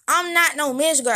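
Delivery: retold indignant comeback; indignant retort. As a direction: reject the nickname firmly.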